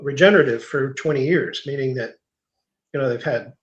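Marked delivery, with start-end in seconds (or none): 0.0-0.6 regenerative set off in air quotes, louder; scare quotes. Shown as a demonstration. Mocking regenerative in scare quotes for farmers. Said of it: "you know, quote".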